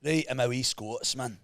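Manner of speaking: lightly put-on Glasgow accent; mild Scottish accent, rolled r. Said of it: "a Scottish person talks like that".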